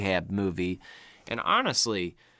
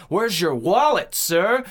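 loud, raised mock demand; frustrated cop; 8 semitones higher, 7 dB louder, slower than usual. Cop pushing a man against the bars, acted frustrated shout. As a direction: imitate a cop losing patience, punching it out. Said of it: "but he's getting frustrated".

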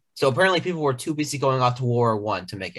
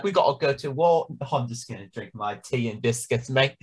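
mock Churchill. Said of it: "Winston Churchill be like".

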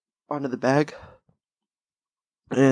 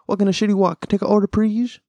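put-on raised-pitch caricature Asian accent; mock Asian accent; 6 semitones higher than usual. South Park joke about taking orders, mock Asian accent. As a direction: quote the cartoon in an exaggerated Asian accent. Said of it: "that's from South Park".

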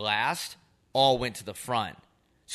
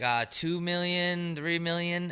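mock guessing; 8 semitones higher, slower than usual. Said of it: "we're both like".

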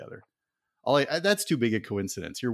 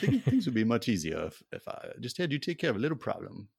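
put-on Southern accent. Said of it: "offended the entire American South".

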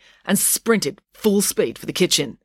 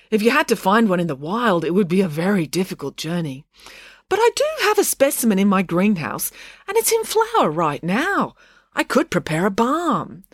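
higher, careful academic voice; Dad, hesitant scientist; 4 semitones higher than usual. Acted. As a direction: offer the remedy tentatively.

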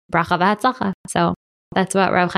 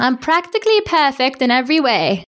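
put-on a light prim English-accented Mary Poppins quote, slightly higher; 5 semitones higher than usual. Host laughing off her English accent, lightly hammed English nanny voice. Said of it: "I sound like I'm Mary Poppins".

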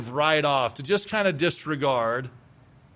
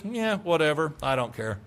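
indifferent whatever; 3 dB quieter than usual. Retold or imitated. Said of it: "but just with this".

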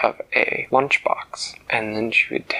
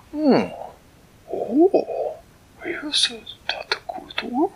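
higher, eager cat-king voice; a delighted, fussy creature greeting a friend; Flibbertigibbet's voice; 13 semitones higher, much slower than usual. Acted. Storyteller voicing Flibbertigibbet greeting Winella, high and delighted.

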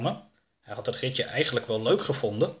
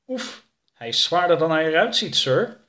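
raised, louder, effortful complaint; straining with effort; 5 semitones higher, 5 dB louder than usual. Acted. Jake to his boss while lifting Oroka, straining. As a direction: puff it out while heaving a load.

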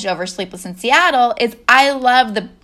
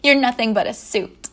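lower, understated heartfelt retelling; imitated sincerity; 3 semitones lower than usual. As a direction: quote her sincerely, with a light touch. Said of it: "she gets sincere and she's like".

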